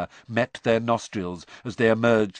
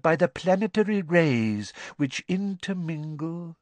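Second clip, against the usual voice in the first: misty seer voice; 6 semitones higher than usual. A narrator's reading. Trelawney lecturing mystically.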